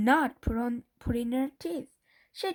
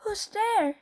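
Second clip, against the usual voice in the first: 1 startled; 10 semitones higher than usual. A narrator's reading. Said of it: "she said".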